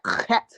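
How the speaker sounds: "cat" with a rasped throat-clearing first sound; guttural Hebrew sound. Shown as a demonstration. Showing the rough sound learners struggle with, guttural "cat". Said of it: "you gotta get that".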